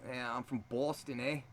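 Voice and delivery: lightly put-on Boston accent; a hint of Boston accent. Shown as a demonstration. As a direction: show how Boston people sound. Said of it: "You do, like, a Boston".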